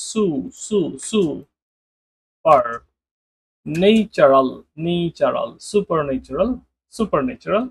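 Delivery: সু, পার, ন্যাচারাল pieced together into সুপারন্যাচারাল; syllable by syllable. Shown as a demonstration. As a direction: build the word up piece by piece. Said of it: "এটা এভাবে করতে পারেন". (ভাগে ভাগে উচ্চারণ)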